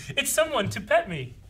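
dog voice. Retold or imitated. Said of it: "He just does this".

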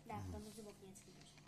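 chewing toffee. Real, not acted. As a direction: mouth partly full. Seen 0: hand at mouth picking sticky sweet, toffee wrappers on table.

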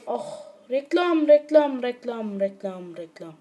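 slow groan of reklam fading to almost nothing; groaning fade. Real, not acted. Annoyed gamer groaning at an ad, fading out. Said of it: "Yanlışlıkla reklama bastım".

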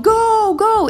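high, loud mock cheer; cheering yell. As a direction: urge the rider on, yelling. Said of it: "they're screaming".

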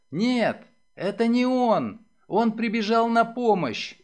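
high, insistent plea; pleading. A narrator's reading. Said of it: "взмолилась Марша".

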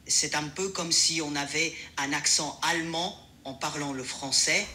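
French with a slight German accent. Shown as a demonstration. Assistant shows a user a light German accent. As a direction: speak French as a German would, measured and low-key. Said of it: "avec un accent qui a des sonorités allemandes".

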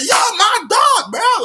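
slow excited shout; stretched hype. Retold or imitated. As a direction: drag it out like best friends. His own reply.

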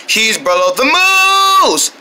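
slow, drawn-out title announcement; slow trailer title. Pretend. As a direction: savour the movie title.

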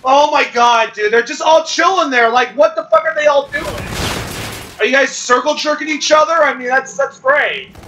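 high, loud disbelief; incredulous rant. Real, not acted. Streamer mocking teammates who are idling, high incredulous rant. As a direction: rant at them, amazed and mocking.

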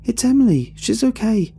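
high, loud desperate pleading shout; frantic shouting. A narrator's reading. Ariana screams at friends holding her, high loud frantic plea. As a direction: scream to be let go, struggling. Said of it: "Ariana shouts, struggling".

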